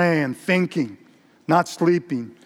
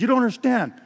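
acted anguished confession, pitched up; insistent; 3 semitones higher than usual. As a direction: insist on your guilt, then sink into a plea. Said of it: "he persisted".

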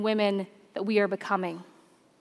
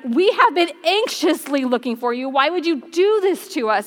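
a touch more volume, anxious mother; louder, mildly raised mother. Shown as a demonstration. Mary scolding her lost son, mildly raised voice. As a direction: raise it a little like a worried mom. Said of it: "with a higher voice volume".

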